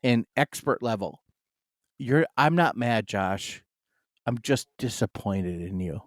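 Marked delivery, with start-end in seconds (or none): 2.0-6.0 imitating disappointed dad. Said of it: "my dad did this in expert level".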